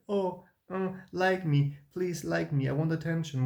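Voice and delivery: hammed-up attention-seeking whine; fake needy voice. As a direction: parody yourself begging for approval. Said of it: "So fake and so much like".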